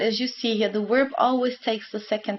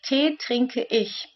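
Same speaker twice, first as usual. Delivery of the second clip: slow, careful model sentence for learners; slow demo sentence; much slower than usual. Shown as a demonstration. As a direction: spell it out slowly for the class. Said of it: "So you could also say".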